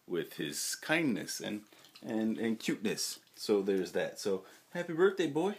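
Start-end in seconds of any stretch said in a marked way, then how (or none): 4.7-5.5 high-pitched doting voice for a pet; doting pet talk. Real, not acted. Owner wishing his old dog happy birthday, doting high pet talk.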